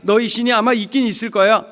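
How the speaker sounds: acted taunt, loud then easing off; mocking. Another foreigner belittling the captive's God, mocking. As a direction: sneer in mock concession. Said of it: "누구는 또 조롱하죠".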